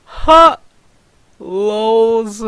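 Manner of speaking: sharp, very high and loud mock "Ha!"; mocking laugh. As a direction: laugh it off in his face. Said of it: "Varlin just laughs at Dunny's comment".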